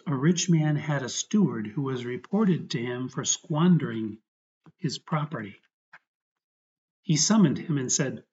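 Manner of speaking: measured gospel reading aloud; scripture reading. Real, not acted. Priest reading Luke's parable during prayer, as scripture.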